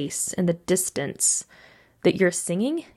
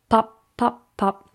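popcorn pops; 3 semitones higher, slower than usual. Shown as a demonstration. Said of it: "Staccato is like popcorn".

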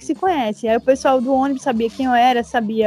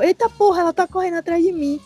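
higher-pitched startled quote of a thief; retold alarm; 5 semitones higher than usual. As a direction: mimic someone alarmed at being chased. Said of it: "eu lembro que ele falou".

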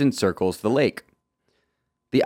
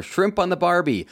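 higher, hammed-up Aussie twang; mock Australian accent; 8 semitones higher than usual. Joking about Aussie clichés, hammed-up Australian accent. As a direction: play the tourist cliché in a jokey Australian accent. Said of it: "except for right then when I just did".

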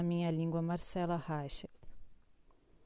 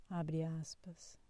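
slow whispered cue; dictating; 7 dB quieter, much slower than usual. Acted. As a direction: breathe the words out slowly. Dictating quote marks.

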